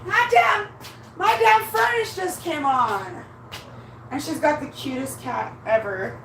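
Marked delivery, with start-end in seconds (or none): 0.1-3.2 high-pitched startled exclamation. Real, not acted. Jumpy as the furnace comes on, startled. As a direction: exclaim after a sudden jolt.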